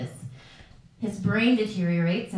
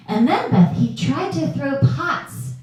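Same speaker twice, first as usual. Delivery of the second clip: mock nurse complaint; 5 semitones higher, 4 dB louder than usual. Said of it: "Martha from Sunrise Kingdom".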